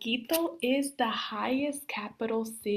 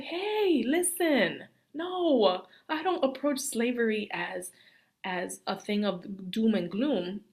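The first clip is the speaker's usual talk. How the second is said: emphatic reply; slower than usual. Retold or imitated. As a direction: insist it isn't all doom and gloom. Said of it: "And I'm like".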